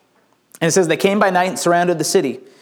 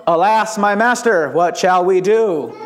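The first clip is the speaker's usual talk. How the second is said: stilted mock-theatrical lament; hammed-up stagey recital; bad school play; slower than usual. Shown as a demonstration. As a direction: declaim it woodenly, stretching the last phrase. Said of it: "He didn't run into the room and go".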